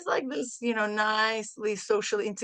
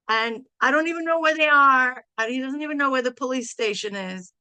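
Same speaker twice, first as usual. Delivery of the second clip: frantic son; 3 semitones higher, 5 dB louder than usual. Retold or imitated. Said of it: "he was really losing it".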